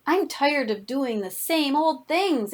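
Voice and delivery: lightly voiced grumbling; narrated grumble. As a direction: stretch out the mild grumble. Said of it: "it grumbled".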